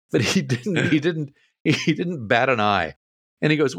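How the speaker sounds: ordinary talk, nothing marked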